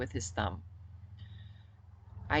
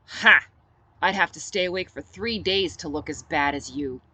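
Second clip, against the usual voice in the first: mocking laugh; 6 dB louder than usual. Mocking retort to friend.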